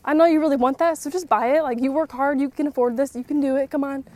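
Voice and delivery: egging him on to treat himself; coaxing husband. Retold or imitated. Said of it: "It's almost annoying sometimes. Like".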